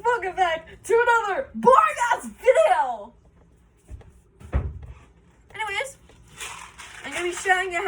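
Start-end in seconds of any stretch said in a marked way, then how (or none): 0.0-3.1 loud intro shout. Real, not acted.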